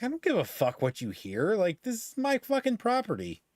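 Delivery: snapping at the neighbor across the street, heated mock rant; retold angry telling-off. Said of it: "I fucking laid into her".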